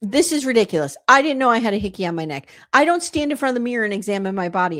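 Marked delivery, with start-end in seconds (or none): none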